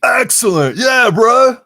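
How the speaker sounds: high, loud surfer bro; surfer dude shout. Acted. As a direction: yell it like a rad dude.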